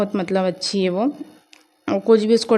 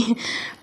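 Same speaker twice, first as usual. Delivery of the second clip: brief, breathy little laugh; soft chuckle; 10 dB quieter than usual. Real, not acted. Vlogger recalling her niece's promise, soft chuckle. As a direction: chuckle quietly to yourself.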